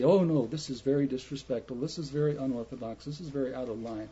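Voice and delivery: quick, fussy tut-tutting; prim disapproval. Retold or imitated. Preacher mimics proper people fussing over children, quick and fussy. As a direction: mimic stuffy churchgoers clucking disapprovingly. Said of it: "all the proper people say".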